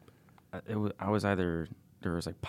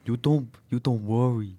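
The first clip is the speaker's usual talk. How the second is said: slow, higher, louder put-on Asian accent; mock Asian accent; 4 semitones higher, 5 dB louder, slower than usual. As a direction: drag it out in a caricature Asian accent.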